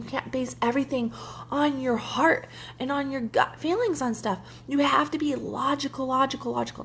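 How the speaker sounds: a hint of a stern German ex laying down the law; lecturing German ex. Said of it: "he'd go".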